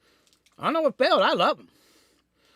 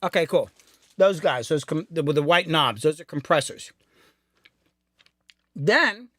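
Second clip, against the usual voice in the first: wolfing down food. Real, not acted. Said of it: "You're chewing".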